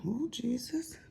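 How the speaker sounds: breathless whispered disbelief; retold stunned whisper; whispered oh Jesus. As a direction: whisper it like you can't believe your eyes. Retold shocked reaction.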